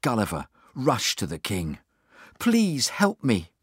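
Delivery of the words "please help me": high, drawn-out plea; begging. A narrator's reading. Gulliver asking the king for help, begging. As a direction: plead slowly, lifting the pitch on "please". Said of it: "he begged".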